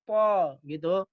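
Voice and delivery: po slowly with puffed cheeks. Shown as a demonstration. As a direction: draw out po with round cheeks. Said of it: "harus gembung". (po pelan dengan pipi gembung)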